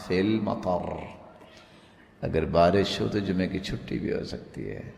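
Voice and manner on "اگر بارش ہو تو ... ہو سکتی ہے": normal talking voice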